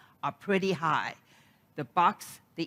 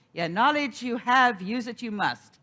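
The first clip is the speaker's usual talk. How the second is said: Yoda-ish minister; 4 dB louder than usual. Retold or imitated. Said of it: "She would get a little Yoda-ish".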